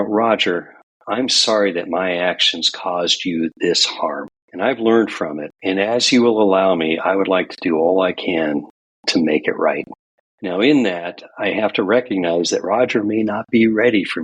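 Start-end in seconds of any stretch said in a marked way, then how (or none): 0.0-9.8 earnest true apology; sincere apology. Retold or imitated. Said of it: "but rather, you know".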